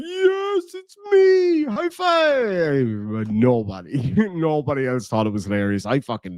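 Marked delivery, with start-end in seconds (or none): 0.0-3.1 much higher, eager, hammed-up reply; mock excited reply. Streamer retelling his McDonald's order being called, hammed-up excited. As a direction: answer like you just won. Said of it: "And I was like".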